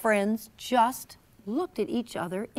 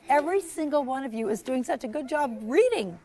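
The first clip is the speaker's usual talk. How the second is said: usual speaking voice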